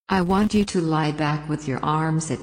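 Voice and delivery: calm, unhurried relaxation guide voice; sleep story narrator. Acted. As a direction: guide the listener down into the bed. Leads a relaxation induction.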